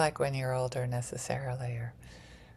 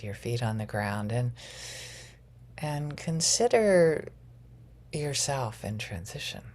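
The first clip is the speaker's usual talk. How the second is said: guided grounding meditation; 2 semitones lower than usual. Acted.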